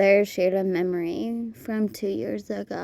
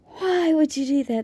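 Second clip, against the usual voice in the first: shocked disbelief; 6 semitones higher than usual. Real, not acted. Reacting to video.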